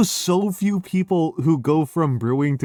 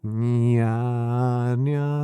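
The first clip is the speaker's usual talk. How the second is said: whiny catlike nya sounds; sing-song nya, nya; cutesy nya speak; 5 semitones higher, slower than usual. Shown as a demonstration. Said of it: "the whiny nya voice".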